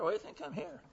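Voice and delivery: "you" lifted and leaned on, high and soft; stress on you. Retold or imitated. Preacher asking the last inmate, stressing "you". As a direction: point the word "you", quiet. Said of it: "I went from a guy".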